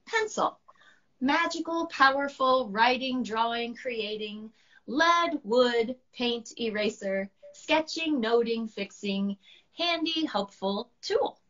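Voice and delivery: high, proud recital; high dragon proudly reciting; dragon reciting poem. Acted. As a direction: read each word like a treasure.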